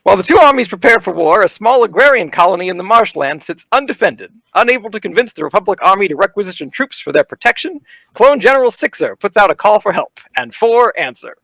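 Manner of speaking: booming carnival barker narration. Acted. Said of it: "I'm gonna put on my best, like, uh, carnival barker voice here".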